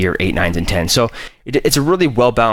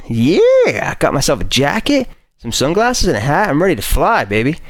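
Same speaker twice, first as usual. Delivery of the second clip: excited; 5 semitones higher than usual. Real, not acted. Shows off jacket, shades, hat.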